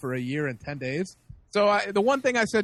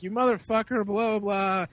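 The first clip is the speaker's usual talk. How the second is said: mock berating, a little raised; retold berating; 4 semitones higher, 3 dB louder than usual. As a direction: mildly imitate a belligerent drunk berating someone. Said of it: "He starts berating the owner".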